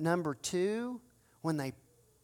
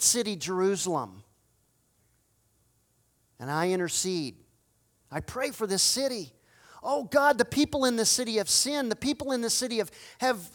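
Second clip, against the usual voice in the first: interceding prayer, fading to plea. Acted. Nehemiah intercedes for the city.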